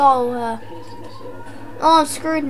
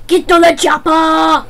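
action hero quote. Pretend. Player quoting the action film to teammates, lightly acted. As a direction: yell it like the movie line.

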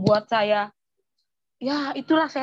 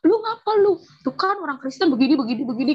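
much higher, sharp mock sister; imitating older sister; 3 semitones higher than usual. Sister demanding what happened, in a high imitation. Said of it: "kata mbak saya gitu".

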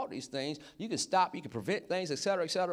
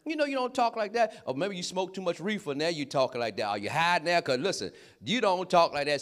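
higher-pitched, incredulous telling-off; mock scolding; 3 semitones higher than usual. Telling an old schoolmate not to try impressing him, mock scolding. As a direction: call out a friend's phony talk. Scolding friend for affected talk.

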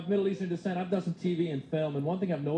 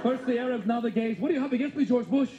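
exasperated gay Arab guy; 5 semitones higher than usual. Retold or imitated. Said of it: "going like".

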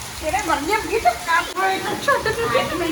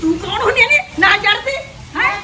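angry retort; 3 semitones higher, 4 dB louder than usual. Acted. Mother-in-law quarrel.

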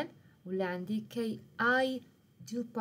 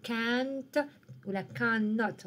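slow demo; much slower than usual. Shown as a demonstration. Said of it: "مثال نقولو".

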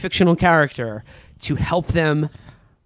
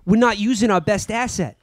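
raised-pitch, hammed-up Boston hero; Mark Wahlberg; 5 semitones higher than usual. Wahlberg's character pitching the city to agents, mock-earnest Boston voice. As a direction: deliver a movie hero's earnest pitch, exaggerated. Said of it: "when Mark Wahlberg's character says".

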